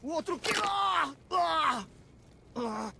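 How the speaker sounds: high, shouted panic; panicked scream. Acted. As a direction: yelp in sudden terror. Thug panics at the threat.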